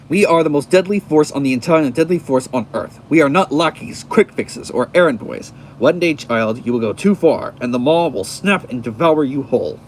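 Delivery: lightly voiced monster threat; forceful, measured comic-book menace; menacing Maw. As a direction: declare it as a stern warning.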